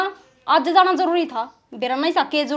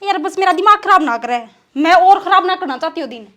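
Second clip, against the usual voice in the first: higher, annoyed wife fed up with husband; irritated; 4 semitones higher, 4 dB louder than usual. Acted. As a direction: cut him off in irritation, a little louder and higher. Wife snaps at husband in quarrel. (चिढ़कर, तंग आई पत्नी)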